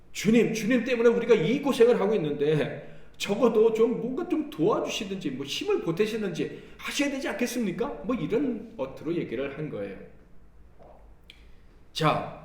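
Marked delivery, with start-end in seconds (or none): 0.1-7.9 raised, louder, reproachful plea; resentful complaint. Retold or imitated. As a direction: complain to the master with bitter reproach. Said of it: "원망하는 말투로 도움을 구했죠".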